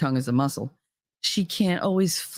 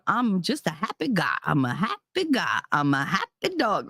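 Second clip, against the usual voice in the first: happy-go-lucky Katie; 3 semitones higher than usual. Retold or imitated. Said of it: "She's just that".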